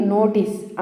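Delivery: "నోటీస్" with a clean final s; model pronunciation. Shown as a demonstration. Teacher showing learners how to say it, careful "నోటీస్". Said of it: "ఎలా పలకాలి?".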